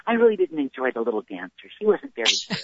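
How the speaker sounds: snooty ballet patron. Retold or imitated. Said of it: "after the show go".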